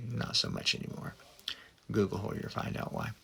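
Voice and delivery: soft, unvoiced gossip aside; a sly whispered dig. Real, not acted. Catty aside about the actress.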